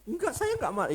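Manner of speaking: very high, forced-smile denial; smiling while angry. Shown as a demonstration. Husband denying anger to his wife, smiling while angry. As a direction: squeeze it out high through a grin. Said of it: "senyum tapi sambil marah".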